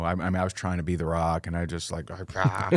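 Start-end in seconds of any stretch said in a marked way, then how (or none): 2.3-2.7 short mock outburst "ah"; retold snapping outburst. Husband snapping at his wife at the hotel, mock outburst. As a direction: let out a brief mock snap. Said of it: "I snap at her once".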